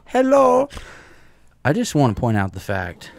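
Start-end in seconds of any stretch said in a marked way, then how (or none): 0.1-0.7 high, loud hello through a laugh; a loud, laughing falsetto hello that answers the co-host's joke. Pretend. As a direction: squeal the hello while laughing.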